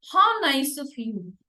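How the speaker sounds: "How nice of you" slowed, the pitch falling on "you". Shown as a demonstration. Teacher models an exclamation, falling tone. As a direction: let "you" drop at the end. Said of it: "it's always a falling".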